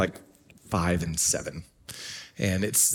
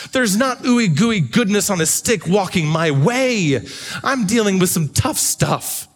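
impassioned preaching; 7 semitones higher than usual. Acted. Preaching climax builds.

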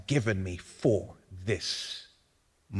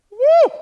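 high, loud whoop of joy; excited whoop; 12 dB louder than usual. Real, not acted. Preacher's exclamation.

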